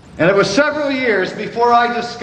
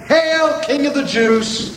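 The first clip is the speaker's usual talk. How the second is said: mock acclaim, pitched up on the first word; 5 semitones higher than usual. Soldiers jeering at Jesus in his crown of thorns, mocking. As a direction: hail him in mockery, starting high. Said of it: "began to mock him".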